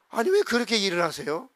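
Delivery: retold defiant questioning; 대드는 말투. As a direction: challenge God's way of working. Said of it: "대들고 기도한 적이". (따지듯 대들기)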